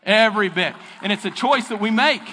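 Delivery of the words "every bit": "Every bit" punched out loud, "Every" hit hardest; emphatic repeat. Real, not acted. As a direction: drive the point home.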